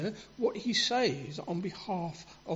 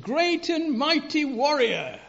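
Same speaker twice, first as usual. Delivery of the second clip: raised, slow, ringing hail to a hero; God's proclamation; 6 semitones higher, 7 dB louder than usual. Retold or imitated. God hailing the frightened Gideon in the shed, slow and booming. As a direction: proclaim it like a voice from heaven. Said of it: "God comes to Gideon and said".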